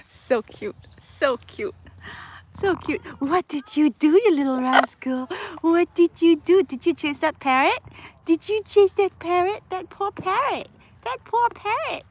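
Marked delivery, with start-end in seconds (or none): 3.2-12.0 high mock scolding. Real, not acted. Baby talk scolding the bird.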